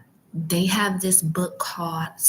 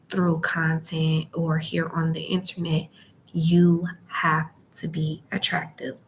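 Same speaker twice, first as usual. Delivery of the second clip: library whisper. Real, not acted. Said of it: "um, whispering".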